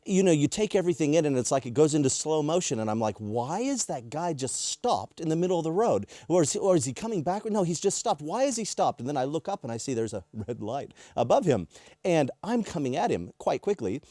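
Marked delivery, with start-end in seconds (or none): 3.2-9.0 higher, puzzled questioning; puzzled, pitched up in mild disbelief; mild retold bewilderment. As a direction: recount a baffled inner reaction. Retold bewildered reaction to stopped car.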